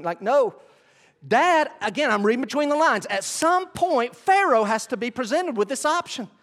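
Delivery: loud, high, impassioned preaching; full-force preaching. Real, not acted. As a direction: preach it out with rising fervor.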